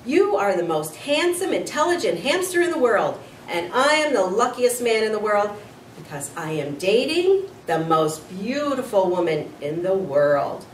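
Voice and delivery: overflowing with joy; a man giddy in love; lovestruck gushing. Acted. Aldo gushing about love.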